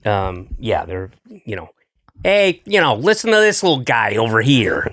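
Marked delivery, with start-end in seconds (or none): 2.2-4.9 put-on harsh Midwestern accent. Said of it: "girls from Chicago, like, hard".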